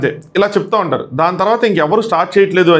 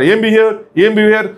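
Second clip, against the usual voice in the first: somewhat raised mock yelling; replaying a shouting match; imitating an angry outburst, higher; retold shouting; 3 semitones higher than usual. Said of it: "అరిచి అరిచి గట్టిగా చెప్తారు".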